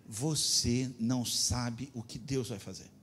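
ordinary talk, nothing marked

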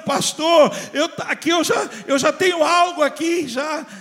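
high, loud, fiery pastor's call; full-force preaching. Acted. Pastor preaching Sunday worship to believers at home, loud and fiery. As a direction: preach it out big to the whole church.

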